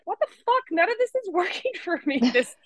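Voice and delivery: high, laughing exasperated rant; the listener at their wits' end, squeaky and laughing; frustrated you. Retold or imitated. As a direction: whine like it's all bullshit. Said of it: "you're literally like".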